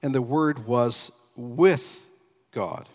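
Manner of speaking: slow line with "with" held back and punched; "with" set apart and lifted, "God" falling away; stress on with. Shown as a demonstration. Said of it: "Look carefully at those words, "with God".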